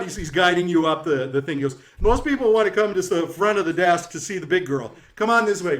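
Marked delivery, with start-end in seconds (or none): 2.0-5.8 brash jokester host. Acted. Jokester figure guides the guests.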